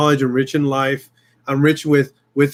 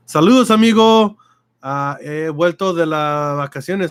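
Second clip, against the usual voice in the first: playful Spanish greeting. Pretend.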